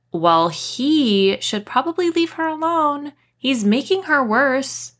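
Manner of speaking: put-on huffy teen girl. A narrator's reading. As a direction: snap back, offended. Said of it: "she huffed".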